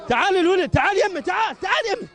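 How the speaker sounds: rising to a shout of come here; calling out. Real, not acted. Soldier calling the boy to come to him, building to a shout.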